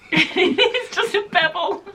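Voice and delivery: high, slow, laughing through the words. Real, not acted. Showing the frog gift to viewers, laughing. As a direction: giggle it out.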